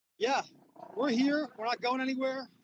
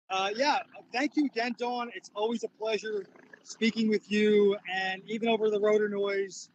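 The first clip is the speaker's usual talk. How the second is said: raised voice over rotor noise; yelling over helicopter; 4 dB louder than usual. Real, not acted. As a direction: push the voice over a landing helicopter. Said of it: "Try to talk over the rotor noise".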